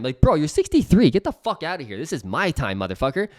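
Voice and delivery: venting at boomers, half joking; real irritation rising; getting heated. Real, not acted. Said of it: "I'm getting a little heated".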